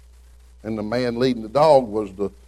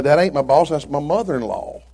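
punchier and higher retold line; louder punchline retelling; 5 semitones higher, 5 dB louder than usual. Shown as a demonstration. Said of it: "she's fixing to get one".

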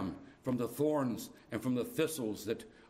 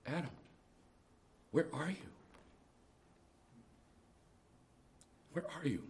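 gentle question; 3 semitones higher, 7 dB quieter than usual. Acted. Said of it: "with the most gentle kind of a question".

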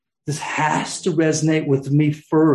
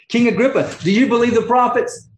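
earnest question; 7 semitones higher, 4 dB louder than usual. Acted. Paul questions the king.

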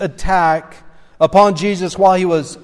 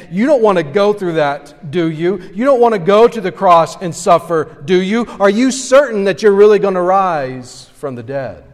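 lightly voiced taunting tempter, a little higher; mock tempter voice; 3 semitones higher, 4 dB louder than usual. Satan tempting Jesus to avoid the cross, mild taunting. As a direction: needle him with doubt, half-teasing. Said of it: "trying to prey upon that weakness and saying".

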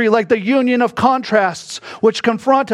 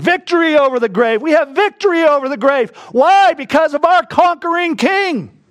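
triumphant build; 6 semitones higher than usual. Real, not acted. Preacher rises to a triumphant cry.

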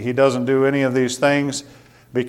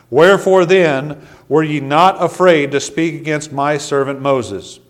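solemn voice of God; 3 semitones higher, 3 dB louder than usual. Acted. Reading God's rebuke in scripture.

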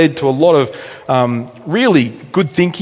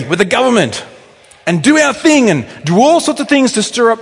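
high-pitched, urgent sermon delivery; earnest pulpit exhortation; impassioned preaching; 8 semitones higher, 3 dB louder than usual. Real, not acted. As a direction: press the warning home to the congregation. Preaches application to congregation.

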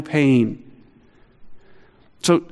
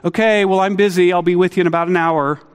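casual brush-off; 4 semitones higher, faster than usual. Retold or imitated. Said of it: "so I casually answered".

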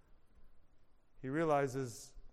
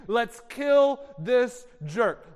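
mock scream; 4 semitones higher, 7 dB louder, much slower than usual. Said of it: "they were screaming".

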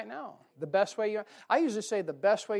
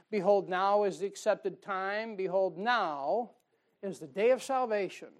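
emphatic scripture reading. Acted.

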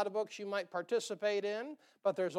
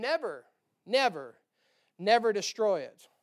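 building emphatic warning; 6 dB louder than usual. Acted.

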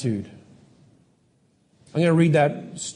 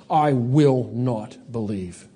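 defiant refusal; 6 semitones lower, slower than usual. Acted. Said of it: "a defiant rejection of God".

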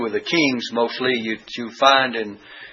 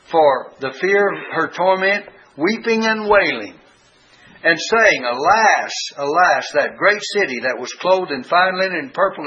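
raised, rolling pulpit reading voice; fervent scripture reading; 3 semitones higher than usual. Acted. Preacher reading Revelation to his congregation, fervent and raised. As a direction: read the list out like a preacher building.

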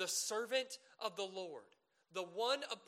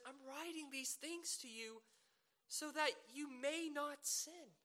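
pastoral tone; 8 semitones higher than usual. Retold or imitated. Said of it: "that pastoral tone".

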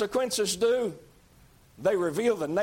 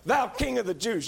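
mocking hail; 2 semitones higher than usual. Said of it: "That's mockery".

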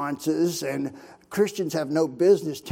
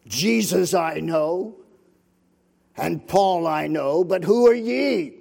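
evil spirit voice; 4 dB louder, slower than usual. Acted. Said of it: "here's the evil spirit's voice".

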